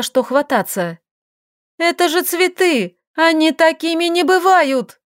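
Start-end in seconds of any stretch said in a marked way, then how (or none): 1.8-5.0 high-pitched panicked squeal; a girl's high, frightened shriek. A narrator's reading. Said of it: "взвизгнула девушка".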